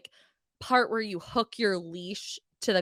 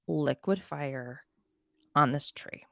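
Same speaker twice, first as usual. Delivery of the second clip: whispering; 6 semitones lower, 6 dB quieter, slower than usual. Real, not acted. Disgusted detail.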